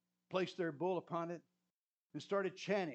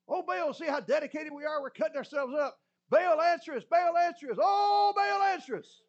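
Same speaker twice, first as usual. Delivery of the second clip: higher and louder, building to a shout; frantic cry to Baal; 11 semitones higher, 11 dB louder than usual. Retold or imitated. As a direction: beg harder until you shout. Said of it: "So they cut themselves".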